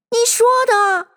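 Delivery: high accusing voice. A narrator's reading.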